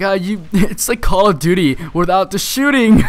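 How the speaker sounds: mock kid joking. Kid's failed joke.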